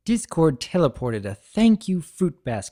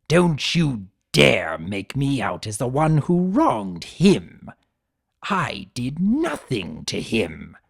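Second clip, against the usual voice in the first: snarling in rage; slower than usual. Acted. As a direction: spit out the betrayal. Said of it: "T-Rex snarled in rage".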